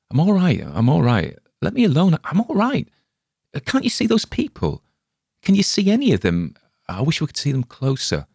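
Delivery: high, loud, rattled protest; agitated insistence. Acted. Spalner fending off his friend, agitated and high. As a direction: push him away, panicky and shrill-high.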